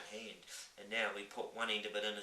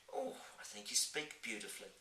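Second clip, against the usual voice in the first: put-on warm young girl; 3 semitones higher, 3 dB quieter than usual. Sophie reassures.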